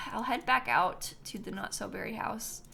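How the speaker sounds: talking through a yawn; sleepy yawn mid-sentence. Real, not acted. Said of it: "I'm sorry for yawning".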